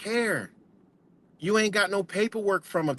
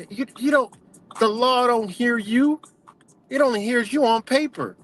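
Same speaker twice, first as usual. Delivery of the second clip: higher and pushing, words stretched out; heated insistence; 7 semitones higher than usual. Real, not acted. Warning viewers they're dead to the law, heated and insistent. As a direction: press the point harder and harder.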